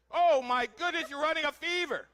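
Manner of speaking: loud, high, hammed-up gasp of concern; theatrical worry over a blushing lady; mock alarm. Teasing a blushing audience member.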